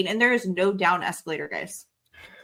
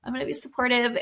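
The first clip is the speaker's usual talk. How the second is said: trying to be nice; 3 semitones higher, 4 dB quieter than usual. Retold or imitated. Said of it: "I was trying to be nice".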